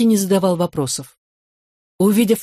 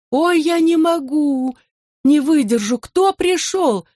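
much higher, slow tearful keening; an old mother breaking down at the door; slow, high-pitched weeping lament; wailing lament; 9 semitones higher, slower than usual. A narrator's reading. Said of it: "запричитала, заплакала она".

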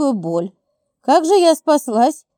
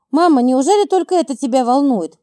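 usual speaking voice

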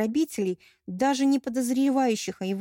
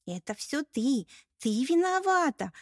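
accusing outburst; 6 semitones higher than usual. Acted. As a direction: lash out and blame her. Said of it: "набросилась на меня Эльнариса".

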